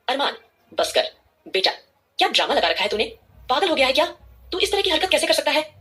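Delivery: rising to a high anguished cry; an old man begging his grandson, breaking upward; pained plea. A narrator's reading. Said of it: "दादाजी की आवाज में काफी दर्द".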